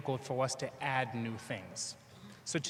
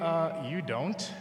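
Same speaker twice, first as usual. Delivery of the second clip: deadpan inner retort; 4 semitones higher, 4 dB louder, much slower than usual. Retold or imitated. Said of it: "I'm thinking".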